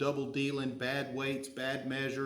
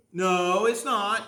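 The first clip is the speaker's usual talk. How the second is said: firm mama bear no; 5 semitones higher, 7 dB louder, much slower than usual. Retold or imitated. Mother answers child's back talk.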